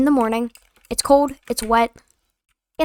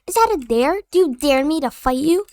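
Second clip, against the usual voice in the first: put-on higher, cocky kid taunt; mocking kid voice; 3 semitones higher than usual. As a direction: imitate the kid daring you. Kid asking if it's a dare.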